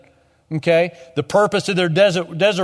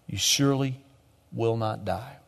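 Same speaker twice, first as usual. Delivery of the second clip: serpent's whisper; 6 semitones lower, 8 dB quieter than usual. Retold or imitated. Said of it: "Satan, still whispers in our ear".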